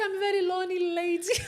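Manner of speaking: high, crying voice on the verge of sobbing. Retelling telling a new friend about living alone: retelling own crying. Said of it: "and I start to cry".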